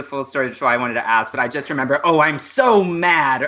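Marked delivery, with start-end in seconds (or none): 2.0-3.4 imitating the Stritch bit. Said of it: "I just remember seeing you do that".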